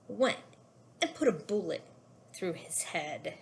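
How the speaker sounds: recited poem with a dark final drop; poem reading. Acted. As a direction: read the closing lines gravely.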